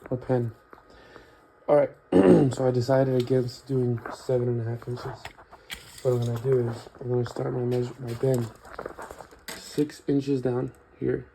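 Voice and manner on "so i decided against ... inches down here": talking around a pen in his mouth; pen in teeth. Real, not acted. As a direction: speak with a marker held in the teeth. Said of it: "Let me put this marker in my mouth".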